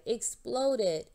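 loud outburst, falling hard on exploded; a sudden indignant cry; cried out. Acted. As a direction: let the frustration burst out. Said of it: "Hank cried".

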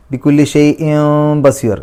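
slow chanted phrase; Quran recitation. Shown as a demonstration. Teacher recites the phrase with iqlab. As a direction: chant it slowly. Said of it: "ഇഖ്ലാബാണ് നിയമം".

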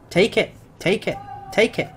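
high, punchy repeated "Take it"; emphatic repeated urging. Real, not acted. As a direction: hammer home "Take it" each time. Urging club to accept offer.

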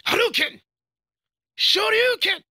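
high-pitched shouted attack call; battle cry. Acted. Fighter calling out special moves at an opponent, high shouted battle cry. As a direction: yell it out as the blow is thrown.

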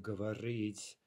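говорить stressed on the last syllable рить; careful model of говорить, stressed at the end; final-syllable stress. Shown as a demonstration. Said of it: "stress is on the final syllable".

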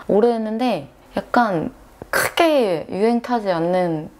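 speech slurred by braces; lisping around a retainer. Real, not acted. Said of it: "교정기를 껴서 발음이". (교정기 낀 발음)

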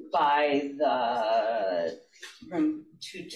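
speaking up a little for the courtroom; teacher voice. Real, not acted. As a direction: project deliberately, with halting pauses. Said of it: "use your teacher voice ... as loud as you can".

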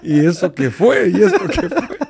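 scared man. Retold or imitated. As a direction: sound spooked by what he saw. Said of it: "Estaba asustado".

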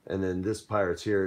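normal talking voice

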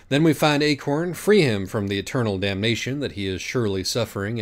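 rally them to hell; grandiose vow. Acted. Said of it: "Pam said".

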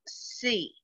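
"Sea" said softly with a chin dip. Shown as a demonstration. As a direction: say sea quietly, almost to yourself. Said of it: "Or you could do it like this".

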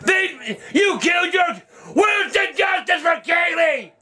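real rage, curses yelled at the TV; furious rant. Real, not acted. Raging over the verdict.

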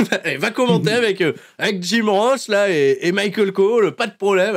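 a light chuckle while granting the favour; retold Regal, laughing. Regal granting Tajiri his wish, half laughing. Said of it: "il fait".

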